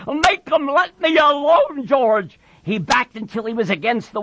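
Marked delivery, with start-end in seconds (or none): 0.1-2.4 high, pleading voice; frightened big man wailing for help; terrified cry. A narrator's reading. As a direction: beg your protector to step in. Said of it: "he cried".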